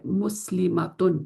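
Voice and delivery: مسلماتن drawn out slowly, syllable by syllable; slow demo word. Shown as a demonstration. Teacher showing the word to students, slow and clear. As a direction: spell out مسلماتن slowly for the class. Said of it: "یہ آپ کے سامنے یہ ہے".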